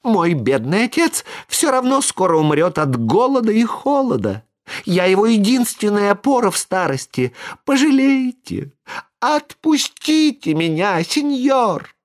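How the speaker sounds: put-on high, pitiful boy's plea; pleading puppet. A narrator's reading. Buratino begs Karabas to let him go. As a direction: beg for mercy in a high little voice.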